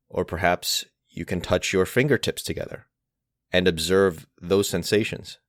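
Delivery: unhurried guided meditation with long pauses; guided mindfulness. Acted. Teacher leading listeners through each of the senses, guided mindfulness. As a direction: guide gently, phrase by phrase, leaving space to notice.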